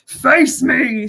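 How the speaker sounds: lightly voiced bugbear challenge. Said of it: "says the bugbear woman".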